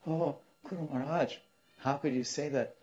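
high, distressed pleading voice; mock-tearful, high-pitched appeal; imitated trembling son. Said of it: "The son was trembling".

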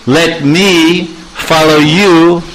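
Krishna begs Lalita for entry, lightly voiced; pleading Krishna. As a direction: coax her to let him in. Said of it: "he's saying".

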